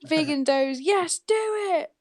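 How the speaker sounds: stretched-out Geordie cheer; Geordie accent. Pretend. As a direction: ham up the Geordie. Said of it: "the Sarah version of Periscope".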